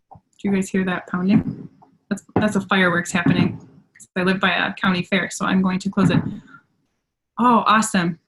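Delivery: ordinary delivery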